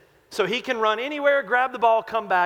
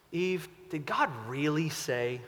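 sly tempter; 2 semitones lower than usual. Acted. Satan tempting Eve.

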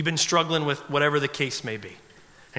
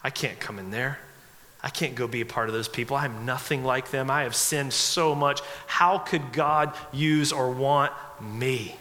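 quiet, low, heavy-hearted self-doubt; a hint of despair, spoken softly; hopeless; 4 semitones lower, 3 dB quieter than usual. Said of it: "there's just too much".

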